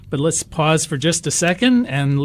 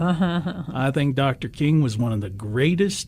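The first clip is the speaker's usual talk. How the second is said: deep Southern voice; 3 dB quieter than usual. Retold or imitated. Retelling a board member rebuking a racist joke in a light Southern accent. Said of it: "in a real deep Southern voice".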